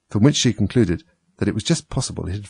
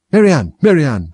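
high, loud summons; raised, imperious call; 7 semitones higher, 8 dB louder than usual. A narrator's reading. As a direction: call sharply for a servant outside. Rabbit calls the maid from outside.

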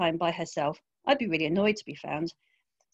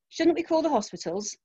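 urgent near shout; 8 semitones higher than usual. A narrator's reading. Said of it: "Simon almost shouts".

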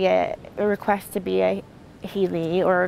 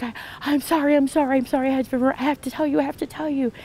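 fast, higher, breathless rush of apologies; urgent apology; 5 semitones higher, faster than usual. Retold or imitated. Interrupting her group with urgent news, fast and high. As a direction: tumble the words out in a hurry.

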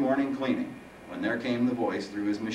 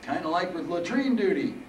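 put-on old man voice; 9 semitones higher than usual.

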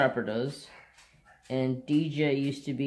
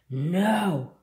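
raised-pitch acted "no" from a dog; sudden higher protest in a dog's voice; 6 semitones higher, 4 dB louder than usual. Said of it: "snapping at my brother and was like".

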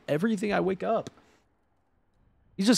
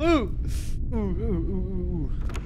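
shuddering oohs; slower than usual. Real, not acted. Shuddering after a real scare.

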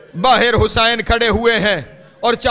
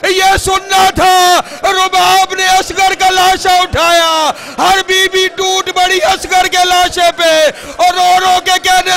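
wailing climax; 4 semitones higher than usual. Acted. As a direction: rise to a full mourning wail. (بلند آواز میں گریہ و زاری)

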